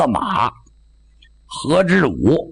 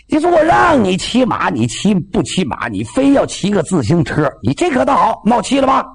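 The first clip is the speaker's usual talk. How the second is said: scolding; 5 semitones higher than usual. Acted. Father scolding son.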